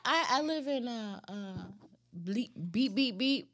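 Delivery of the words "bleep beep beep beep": bleeped out. Pretend. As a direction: voice your own censor beep. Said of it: "You gonna bleep this?".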